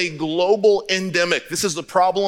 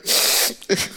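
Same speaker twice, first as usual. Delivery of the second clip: son's muffled laugh; 3 dB quieter than usual. Retold or imitated. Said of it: "And I hear".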